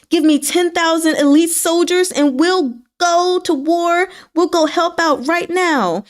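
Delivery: high, earnest volunteering; a keen general speaking up to take his place; eager general. Retold or imitated. Wu Zhan eagerly volunteers for war.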